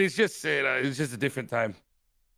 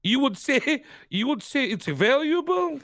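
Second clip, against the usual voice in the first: slow, higher mock-menacing character voice, laughing through it; Ray character voice; 6 semitones higher, slower than usual. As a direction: ham up the smug gangster bargaining. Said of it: "He goes, like".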